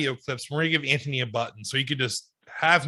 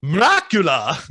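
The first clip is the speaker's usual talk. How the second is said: lightly voiced Dracula. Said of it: "me as Dracula".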